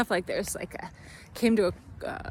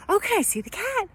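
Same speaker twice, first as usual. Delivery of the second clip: put-on much higher, breezy question as the young officer; French officer's voice; 11 semitones higher than usual. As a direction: lightly mimic the French woman asking to see the cat. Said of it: "And she was like".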